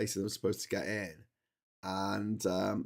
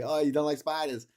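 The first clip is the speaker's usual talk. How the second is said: Roland impression; 4 semitones higher, 3 dB louder than usual. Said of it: "my impression of Roland".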